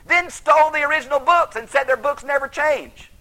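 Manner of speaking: loud, high, indignant ranting; heated outrage. Real, not acted. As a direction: let the outrage boil over, loud and high. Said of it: "I could just spit".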